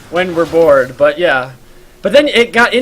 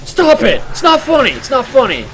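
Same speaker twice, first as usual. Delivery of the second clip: imitating an irritated stranger shouting to stop; mock angry; 8 semitones higher than usual. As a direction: scold the unseen prankster. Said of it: "some people get, like, angry with you".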